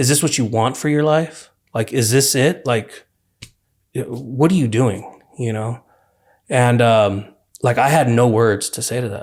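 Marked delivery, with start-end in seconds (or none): 0.0-5.2 mock frustrated, disappointed, angry, let-down tone. Retelling a mother's words on a call about prison, imitating disappointed anger. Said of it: "you could hear it in my mom's voice ... the disappointment and, like, the, the frustration and the anger".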